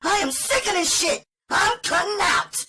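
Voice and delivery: high-pitched, fast-talking woman fed up and daring him; spitting defiance. Acted. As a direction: spit it out in a furious high rush. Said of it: "when she spat out her invitation".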